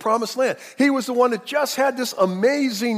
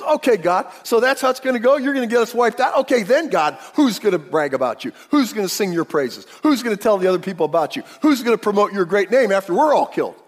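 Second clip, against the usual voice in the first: louder, bold complaint to God, mock challenge; complaining to God; 2 semitones higher, 5 dB louder than usual. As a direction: hurl the questions at God like a complaint. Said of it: "he is really coming on strong".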